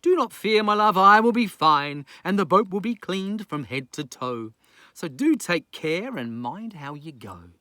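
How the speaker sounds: captain waving off his wife; Festus, brave farewell. Acted. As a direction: send her off warmly. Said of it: "so he smiled and he waved and said".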